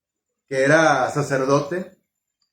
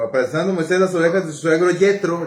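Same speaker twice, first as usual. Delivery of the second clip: put-on reading scripture in an American-accented Spanish; mock gringo reading; faster than usual. Pastor mocks Bible readers: American-accented Spanish. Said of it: "como si fueran gringos".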